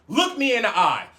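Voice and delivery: firm retold command; stern order. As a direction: order them to face you. Acted stern order, first take.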